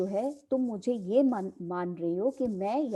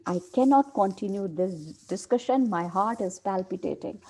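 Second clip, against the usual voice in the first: slow, deliberate reading of a play line; dramatic play reading; much slower than usual. Acted. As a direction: read it out slowly like a script. Teacher reads play aloud.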